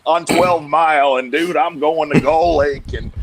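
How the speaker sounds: loud, high hyped-up shout, imitating eager boaters; mock excited boater. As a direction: play the giddy fisherman yelling about the lake.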